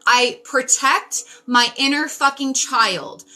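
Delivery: passionate yelling. Real, not acted. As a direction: yell it out with conviction, not anger. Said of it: "I'm yelling".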